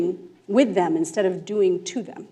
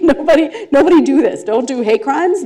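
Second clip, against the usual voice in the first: mock stern warning; 5 semitones higher, 6 dB louder than usual. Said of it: "I was always like".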